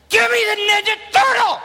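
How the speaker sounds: put-on high shouted kid demand with a laugh. Big brother yelling for the toy, high shout. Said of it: "he's like".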